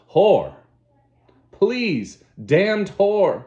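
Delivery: furious shout. Acted. Savage raging at Lenina, furious shout. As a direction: scream the curse in fury.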